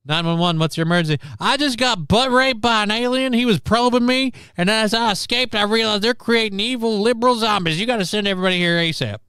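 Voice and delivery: high, loud hillbilly caller voice, rushing at the end; mock 911 caller. Host mocking a zombie-reporting caller, high and loud. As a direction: ham up a panicked redneck calling 911.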